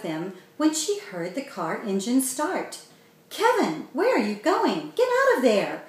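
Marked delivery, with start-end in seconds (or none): 3.3-5.8 higher, louder calling out; alarmed yell. A narrator's reading. Mandy yelling at Kevin in the car, alarmed yell. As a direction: yell after him in panic. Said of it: "Mandy yelled".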